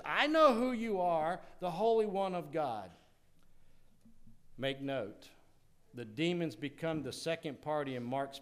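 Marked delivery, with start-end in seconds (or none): 0.0-2.9 higher, louder cry of recognition; demon's cry. Retold or imitated. The demon calling out to Jesus that it knows him, raised and louder. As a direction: call it out like a challenge. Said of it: "He says".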